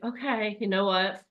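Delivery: the logical monkey calming the group, soft and measured. Retold or imitated. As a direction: talk the excited monkey down gently. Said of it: "this guy is like".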